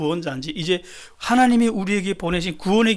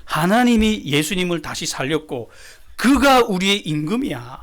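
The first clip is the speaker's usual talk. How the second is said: defiant counterattack. Acted. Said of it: "공격합니다".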